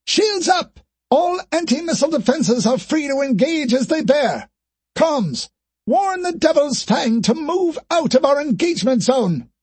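high, urgent barked orders; rapid orders. Acted. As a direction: rattle off commands. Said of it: "firing out orders as fast as a machine gun".

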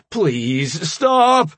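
high, loud cries for help; shouting for help. A narrator's reading. AJ calling the guards through the door, high shout. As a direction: yell it at the door. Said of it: "A J shouted towards their closed door".

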